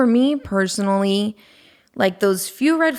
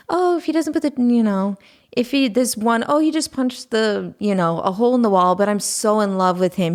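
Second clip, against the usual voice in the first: higher, gushing girl in love, lightly mocked; mock lovestruck girl; 4 semitones higher than usual. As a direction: imitate a naive girl swooning over him. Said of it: "you hear girls say".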